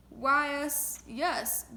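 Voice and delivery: loud booming giant. Acted. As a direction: boom it out.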